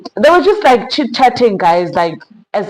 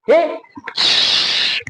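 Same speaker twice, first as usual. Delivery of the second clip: whispered shh to calm her; hushing whisper; 10 semitones higher than usual. Retold or imitated. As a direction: hush someone gently. Man hushing the angry girl.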